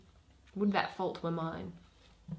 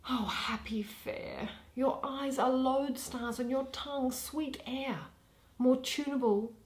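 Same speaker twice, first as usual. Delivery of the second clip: lightly voiced jealous young woman, pleading; envious Helena. Helena pleading with Hermia, mildly voiced and longing. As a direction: ache and envy under the praise.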